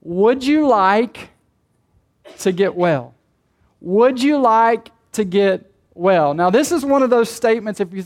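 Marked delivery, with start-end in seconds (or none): 0.0-6.3 gentle question. Retold or imitated. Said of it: "So Jesus asked him this question".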